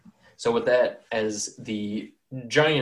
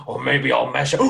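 giant. Acted. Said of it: "hear him be like".

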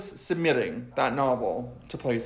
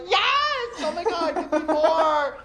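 high, gushing fan squeal; hammed-up adoring audience, laughing; mock adoring fans; 14 semitones higher, slower than usual. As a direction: rave like a starstruck fan. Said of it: "people are like".

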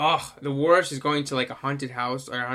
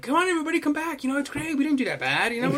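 high, falsely cheerful coaxing; cheery official; 11 semitones higher, faster than usual. Retold or imitated. Russian officials inviting people back, high and cheerful. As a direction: sing it out like a too-chipper official. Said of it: "be like".

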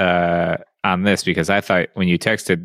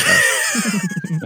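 retold surprise. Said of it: "I was like".

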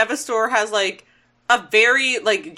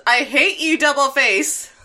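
raised, high-pitched melodramatic outburst; mock fury; 5 semitones higher, 3 dB louder than usual. Hot Rod to Double Face, mock fury. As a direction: quote it like an overwrought hero.

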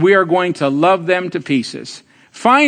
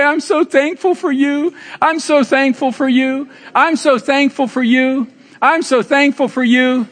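heartfelt thanks; 5 semitones higher than usual. Shown as a demonstration. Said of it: "Look around and say".

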